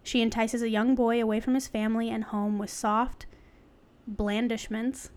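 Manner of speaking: measured, articulate reading; article read-aloud. Real, not acted. Host reading an article to co-host, read-aloud. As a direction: read it out like a written essay.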